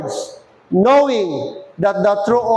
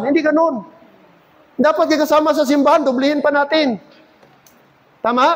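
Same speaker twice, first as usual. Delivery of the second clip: raised-pitch, earnest pulpit urging; preaching admonition; 5 semitones higher than usual. Real, not acted. Preacher warns Christians not to abuse churchmates, insistent and high. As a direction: urge the church firmly, pitched up.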